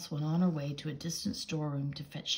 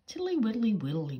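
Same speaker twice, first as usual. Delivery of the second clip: higher, smiling toad voice; 5 semitones higher, 4 dB louder than usual. Acted. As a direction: say it with a sly smile. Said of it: "said the smiling Mister Jackson".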